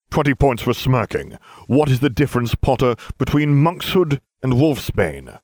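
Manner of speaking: cold stern professor, slowing; stern teacher. Acted. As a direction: grill the pupil coldly. Snape grilling Harry.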